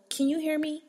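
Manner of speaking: calm clerk demo. Shown as a demonstration. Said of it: "hit them with the".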